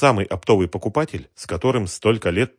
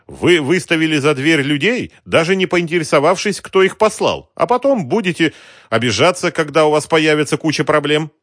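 higher, louder suave extortioner; polite racketeer; 9 semitones higher, 8 dB louder than usual. Acted. Racketeer smoothly threatens the shopkeeper, suave menace.

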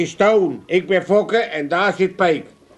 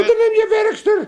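laughing retort; 13 semitones higher, 3 dB louder than usual. Acted.

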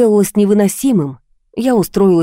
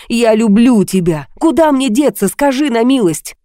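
exasperated cry; 5 semitones higher than usual. Acted. Masked man cries out his love in sheer exasperation. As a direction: blurt out love in frustration. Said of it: "крикнул в крайней досаде".

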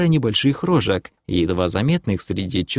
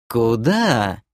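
mild, measured voice at usual pitch; demoness's question. Acted. Demoness asks the elf where to go, mildly curious. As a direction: ask it with calm curiosity.

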